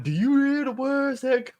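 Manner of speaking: high-pitched Chris Tucker imitation. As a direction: channel Chris Tucker yelling at a suspect. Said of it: "turn into Chris Tucker of Rush Hour One".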